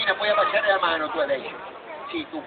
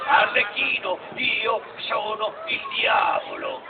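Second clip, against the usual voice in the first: slow devil voice; slower than usual. Acted. Devil announces himself slowly.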